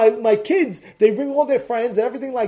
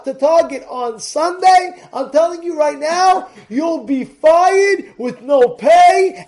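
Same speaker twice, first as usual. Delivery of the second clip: shouting, escalating threats at the staff; furious boss threat; 4 semitones higher, 4 dB louder than usual. Acted. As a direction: bark threats at your workers like a raging boss. Boss threatens workers at emergency meeting.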